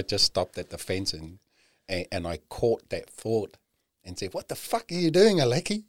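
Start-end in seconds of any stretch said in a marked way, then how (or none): 4.3-5.8 higher, louder mock shout at himself; self-scolding shout. Man at the park fence telling himself off, a mock shout. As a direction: bark it at yourself to snap out.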